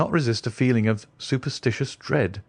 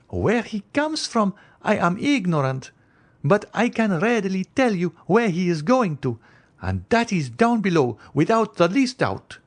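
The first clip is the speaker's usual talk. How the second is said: higher, anxious noblewoman's voice; the Countess; 10 semitones higher than usual. Acted. Countess warning Franz away from the stranger, higher anxious voice.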